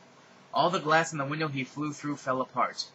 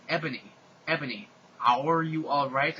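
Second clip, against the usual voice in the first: worried. Acted. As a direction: check on her anxiously. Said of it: "asked Draco in a worried voice".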